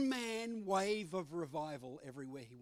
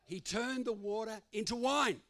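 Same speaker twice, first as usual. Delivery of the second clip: proclaiming; 5 semitones higher, 5 dB louder than usual. Real, not acted. Preacher proclaims after joke.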